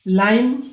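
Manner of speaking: लाइम with the long ai glide, loud and clear; say lime. Shown as a demonstration. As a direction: demonstrate लाइम as laaim. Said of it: "लाइम देख लीजिए". (लाइम का उच्चारण ज़ोर से)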